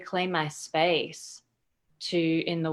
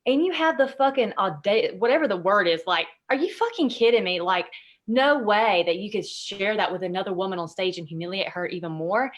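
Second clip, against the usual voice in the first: retold outrage; 4 dB louder than usual. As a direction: relive the anger at the speaker on stage. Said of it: "I was like".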